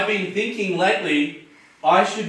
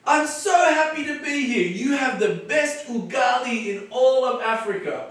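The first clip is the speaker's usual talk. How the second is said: friendly street greeting; 5 semitones higher than usual. Shown as a demonstration. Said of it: "and then I'll say".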